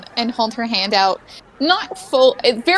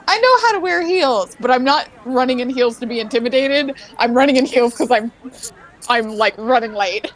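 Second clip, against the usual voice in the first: breezy self-assured; faster than usual. Retold or imitated. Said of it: "that perfect middle ground of".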